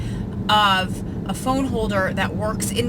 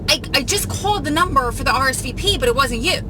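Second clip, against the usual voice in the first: lightly voiced little Italian aunt, raised pitch; high-pitched aunt; 4 semitones higher than usual. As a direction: imitate an adorable aunt, a touch higher. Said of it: "this high-pitched, adorable voice".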